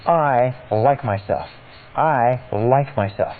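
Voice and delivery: slow, deliberate I like myself; slow repeated affirmation. Shown as a demonstration. Coach showing how to repeat it, slow and deliberate. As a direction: say I like myself slowly, letting each word land. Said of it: "If you say".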